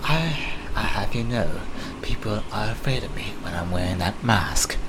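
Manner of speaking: lightly voiced affronted British villain; restrained British indignation; a hint of scary British guy; Black Mask. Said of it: "I'm supposed to be the scary British guy".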